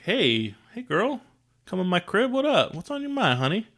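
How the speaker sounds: high, hammed-up flirty greeting; mock smooth player. Tobias greeting Rachel at his nest, hammed-up smooth talker. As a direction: ham up a slick ladies' man. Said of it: "He doesn't do that".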